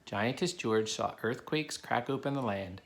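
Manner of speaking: put-on steady storybook narration for kids; reading a story aloud. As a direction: read it to the class like a picture book. Reads a picture book to children.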